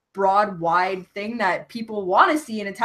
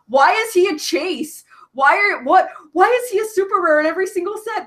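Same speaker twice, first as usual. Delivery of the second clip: higher, louder, rushing complaint; incredulous rant about the price; exasperated disbelief; 11 semitones higher, 5 dB louder than usual. Retold or imitated. Retold dismayed collector complaint.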